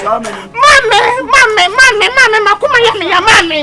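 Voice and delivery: crying out. Acted. Child crying out for mother.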